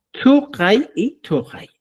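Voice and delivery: first Tukai with hard k, second as "tujai"; contraste de pronunciación. Shown as a demonstration. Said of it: "Esa es la diferencia que tenemos". (Tukai con k fuerte y luego tukai con jota, lento)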